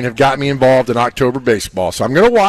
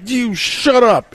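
mock retort; 8 semitones higher, much slower than usual. Yelling at announcer on TV.

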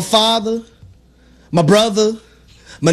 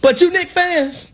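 preaching; 3 semitones higher than usual. Acted. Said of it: "holding this Bible right now".

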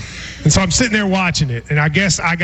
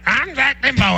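mock campaign-ad voice, pitched higher; Zach Dimbo; 4 semitones higher than usual. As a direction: imitate an ad breaking into a doze. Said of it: "I'd hear".

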